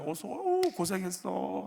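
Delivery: high-pitched welcoming cry; effusive greeting. Acted. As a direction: greet a relative in a high, drawn-out voice. Acted holiday greeting to relatives.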